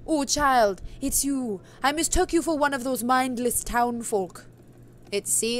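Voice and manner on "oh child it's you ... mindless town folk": put-on witch's accent sliding into Scottish; put-on accent drifting toward Scottish; accidental Scottish. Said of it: "it's going Scottish".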